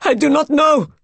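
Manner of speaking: high, loud, hysterical cry; rising scream. A narrator's reading. Raoul answering the maid, voice risen to a scream. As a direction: scream it out in helpless horror. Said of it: "His voice rose to a scream".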